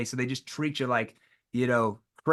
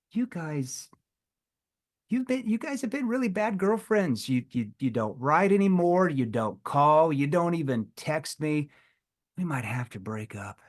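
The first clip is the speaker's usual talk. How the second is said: playful tone. Retold or imitated. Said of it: "like, a playful tone".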